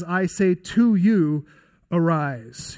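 slow "I say to you", weight on "to you", "arise" falling; stress on "to you". Shown as a demonstration. Preacher re-quoting Jesus, "to you" stressed slowly. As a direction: let "to you" carry the command. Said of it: "are in an emphatic position".

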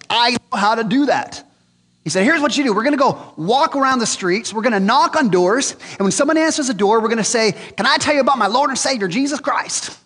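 a hint of an earnest old-school pastor inviting himself in; old pastor's voice. Pastor urging a young believer to knock on doors, mild impression of an old preacher. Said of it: "That was the way he talked".

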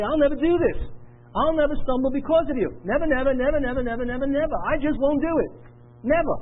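a preacher lightly voicing an insistent never, never; emphatic vow. The preacher retells Peter's vow to Jesus, mildly insistent. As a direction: retell it with mild, stubborn insistence. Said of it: "Peter says emphatically".

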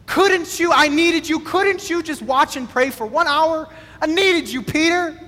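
high, hurt disbelief at a sleeping friend; disappointed rebuke. Acted. Jesus rebuking Peter who fell asleep, hurt disbelief. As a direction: let the letdown rise in the voice. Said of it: "he's like".

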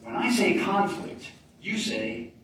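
loud, pumped call to the crowd; hyped crowd warm up. Acted. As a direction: rev the room up for a response. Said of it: "I'm gonna say a phrase, and I wanna hear back from you".

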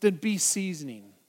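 punchy urgent charge with pauses. Retold or imitated. Jesus charging his followers to act, urgent. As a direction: press each command home urgently. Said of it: "With urgency in his voice".

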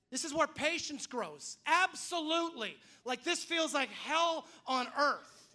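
high, loud, drawn-out exasperation; mock exasperation. Parent enduring the carnival, high and exasperated. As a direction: stretch it out slowly, comically fed up. Frazzled parent echoes the Spirit's advice.

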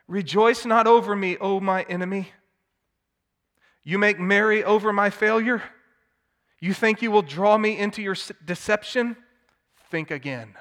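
loud, defiant, risen up against the enemy; defiant declaration. Acted. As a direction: proclaim it boldly straight at the devil. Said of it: "Here's what you say".

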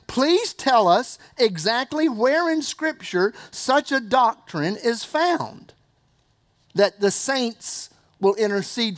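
slow, high-pitched retold demand; emphatic challenge. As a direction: press each word as a debating challenge. Retold debate challenge to Fabri.

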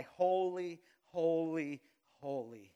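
crying out. Acted. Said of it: "And they cry".

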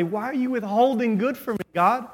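high, pleading complaint to God; a hurt believer questioning God; complaining to God. Retold or imitated. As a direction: voice the sufferer's grievance. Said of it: "Suffering causes us to look to God and say".

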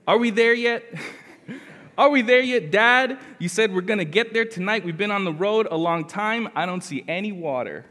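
put-on high, loud whiny kid; pestering child. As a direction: nag like an impatient kid. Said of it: "what does the kid say?".

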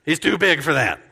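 high, loud, laughing incredulity; laughing disbelief. Retold or imitated. Friend on the phone laughing at the rafting story, high and loud. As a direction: crack up at the absurd idea. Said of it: "And then Nate just died".

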